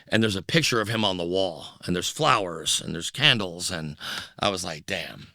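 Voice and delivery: low, soft, subdued retelling; hushed. Retold or imitated. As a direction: drop the voice as if at a memorial. Seeing dead man's memorial.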